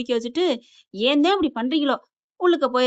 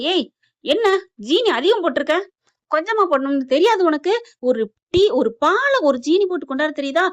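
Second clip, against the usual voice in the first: raised, louder scolding; mock scolding; 4 semitones higher, 4 dB louder than usual. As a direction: scold her over the sugar. Mother-in-law scolds daughter-in-law. (மாமியார் மருமகளை அதட்டும் குரல்)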